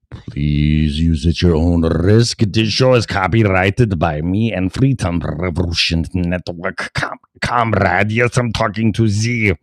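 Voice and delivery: light mock German accent, meant as Russian; botched German accent. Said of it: "no, that's a German accent".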